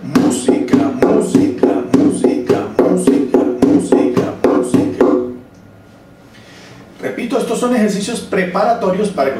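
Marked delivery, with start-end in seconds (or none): 0.0-5.1 música chanted repeatedly, first syllable punched; steady accented música triplets; strong accent on MÚ. Shown as a demonstration. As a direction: drum out MÚ-si-ca with a heavy downbeat. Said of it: "acento fuerte".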